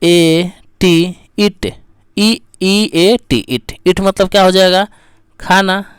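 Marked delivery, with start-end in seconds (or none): 0.0-3.8 letters drawn out one by one, then ईट; spelled out. Shown as a demonstration. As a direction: spell ई ए टी slowly, then say ईट whole. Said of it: "जैसे टी से एक और निकल जाएगा". (अक्षर-अक्षर खींचकर ईट की वर्तनी)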